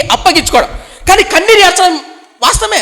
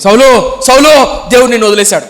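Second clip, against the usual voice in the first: loud, stern prophet calling out the king; stern rebuke; 5 dB louder than usual. Retold or imitated. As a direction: proclaim judgement loudly to Saul. Samuel rebukes King Saul. (గట్టిగా గద్దిస్తూ)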